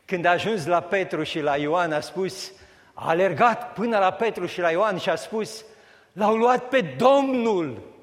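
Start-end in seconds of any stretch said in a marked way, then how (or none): 6.1-7.9 distraught cry. Acted. Mary runs to tell Peter.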